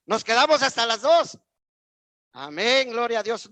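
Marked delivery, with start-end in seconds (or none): 2.3-3.5 amen called out loud to rouse the church. Shown as a demonstration. Preacher calling the congregation to answer amen, loud. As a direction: shout it out so they answer back. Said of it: "No oí amén, hermanos".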